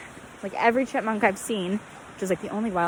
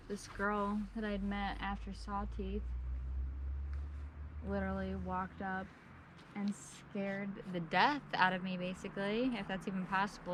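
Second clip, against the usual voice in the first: quiet; 7 dB quieter than usual. Real, not acted. Quiet recap after a scare.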